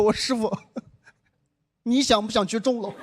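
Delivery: mock-timid, hesitant question; acted-out meek passenger. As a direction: ask the driver gingerly, with a pause. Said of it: "我就很胆怯地跟那个师傅说".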